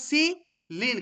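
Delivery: "সিলিন" pulled apart into two syllables. Shown as a demonstration. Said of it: "পেনিসিলিনকে যদি আমি ভাঙি".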